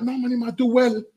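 high mocking mum voice breaking into laughter; mimicking the mum. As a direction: play the mum, laughing at her own impression.

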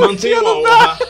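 high, loud, laughing plea; shouting for order. Real, not acted. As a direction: yell for order through a laugh. Mediator calling debaters to order.

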